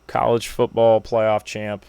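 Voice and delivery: slow, stretched announcer-like phrasing; a strange slow sports-title read; odd drawn-out delivery. Real, not acted. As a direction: drag it out oddly slowly. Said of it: "Why did I say it like that?".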